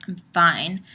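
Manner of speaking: imitated huffy denial; obviously not fine. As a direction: claim to be fine while clearly not. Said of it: "when you're obviously not fine".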